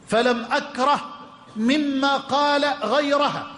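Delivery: slow emphatic reading. Shown as a demonstration. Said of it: "قال عمر".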